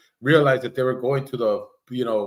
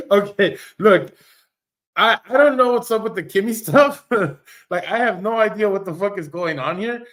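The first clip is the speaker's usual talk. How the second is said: laughing disbelief; 6 semitones higher, 5 dB louder than usual. Real, not acted. Baffled reaction to chat drama.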